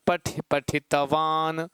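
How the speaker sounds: slow sound demo. Shown as a demonstration. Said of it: "तो इसको कहोगे क्या?".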